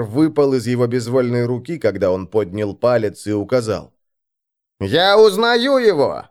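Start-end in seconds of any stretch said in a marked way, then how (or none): 4.8-6.2 high, drawn-out exclamation; amazed recognition. A narrator's reading. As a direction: cry it out in astonishment. Pimp recognises the baron.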